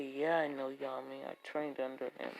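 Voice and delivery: rival student. Acted. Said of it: "As the man would say".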